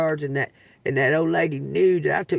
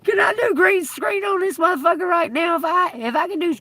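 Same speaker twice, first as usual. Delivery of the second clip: sudden excitement; 10 semitones higher, 4 dB louder than usual. Real, not acted. Excited idea mid-live.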